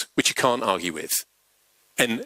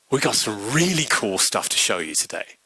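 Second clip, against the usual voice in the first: measured and calm; 4 semitones lower than usual. Retold or imitated. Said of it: "very measured, a smile on his face".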